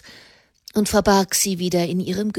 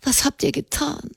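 higher, softer lament; a mild wail of reproach; wailing question; 6 semitones higher, 3 dB quieter than usual. A narrator's reading. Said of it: "jammerte Blanchefleur". (jammernde Frage, höher und leiser)

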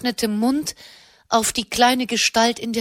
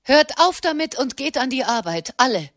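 brisk order; 3 semitones higher than usual. Acted. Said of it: "befahl Katharina".

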